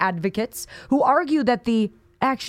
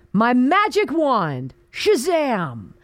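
mock magician; slower than usual. Mocking party as magician.

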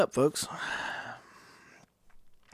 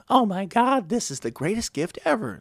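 overblown gushing; 8 semitones higher than usual. Retold or imitated. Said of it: "if you exaggerate the smallest thing".

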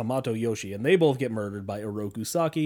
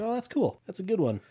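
mock excited; 8 semitones higher than usual. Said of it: "And I'm like".

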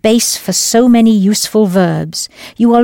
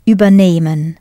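übernehmen stressed on "neh", not on the first syllable; stress on nehmen; 3 semitones lower than usual. Shown as a demonstration. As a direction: keep "über" light and hit "nehmen". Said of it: "Listen to where I put the stress".

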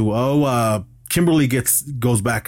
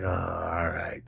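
meek giving in; 5 semitones lower, 10 dB quieter, slower than usual. Retold or imitated. Mullen backs down.

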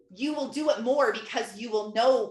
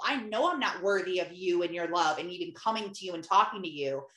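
humble prayer; 2 semitones lower than usual. Shown as a demonstration. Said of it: "confessing to God is telling him".

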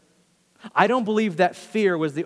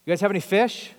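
higher-pitched mild mock yell; calling out; 5 semitones higher, 4 dB louder than usual. Jesus to the fishermen in the boat, lightly calling out. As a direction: call it out lightly, as if across water. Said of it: "yells out to the boat".

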